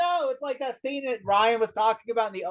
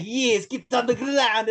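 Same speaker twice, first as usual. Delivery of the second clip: cartoon villain; slower than usual. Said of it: "reminded me of a cartoon character".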